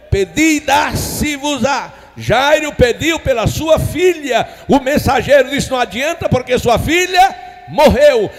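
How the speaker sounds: loud, emphatic Bible retelling; forceful pulpit storytelling; full-force preaching. Acted. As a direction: drive each phrase out to the congregation.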